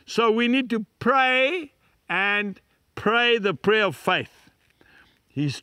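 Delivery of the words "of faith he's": breathy sermon whisper. Real, not acted. Pastor confiding God's trustworthiness to the congregation, whispered. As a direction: drop to a hushed, intimate whisper. Preacher drops voice mid-sermon.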